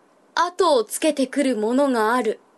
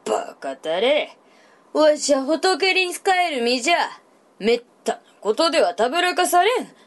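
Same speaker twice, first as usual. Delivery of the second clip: lightly voiced old monk; gently stern old priest; creaky wise old man; 2 semitones higher than usual.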